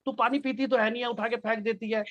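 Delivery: a son woken again, annoyed, snapping at his mother; grumpy, exasperated complaint; irritated outburst. Retold or imitated. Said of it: "बड़ा गुस्से में उठता है झल्ला के".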